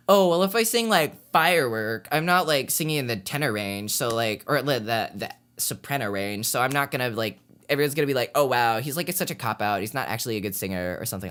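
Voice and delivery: put-on light Valley Girl accent, bubbly sorority girl; breezy Valley Girl lilt, like a sorority girl. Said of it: "I'm using a Valley Girl accent".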